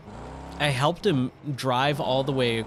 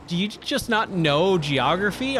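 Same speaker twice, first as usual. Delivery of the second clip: higher-pitched imitation of wife; mock-incredulous question, pitched up; teasing disbelief; 6 semitones higher than usual. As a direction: needle him like a baffled wife. Wife's acted teasing question.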